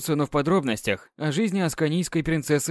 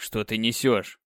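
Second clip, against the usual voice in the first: настороженно; 3 semitones lower, slower than usual. Acted. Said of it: "насторожился Люциан".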